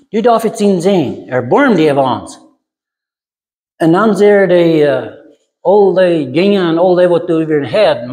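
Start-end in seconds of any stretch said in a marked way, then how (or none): 0.1-2.4 mild retold cry. Blind men calling to Jesus for mercy, mild retold cry. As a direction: call out for mercy without really shouting. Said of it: "Die schreien".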